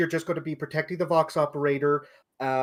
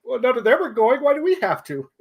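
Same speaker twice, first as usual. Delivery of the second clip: higher, whiny mock complaint; grumbling conscripts; 9 semitones higher, 4 dB louder than usual. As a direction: mimic reluctant soldiers grumbling.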